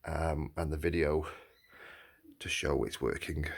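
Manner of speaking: hoarse from a sore throat; scratchy, sore-throated voice. Real, not acted. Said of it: "Apologies for my voice. Got a sore throat".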